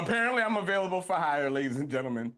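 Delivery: low smooth infomercial pitch; home shopping host. Pretend. Mock ad, "ladies and gentlemen.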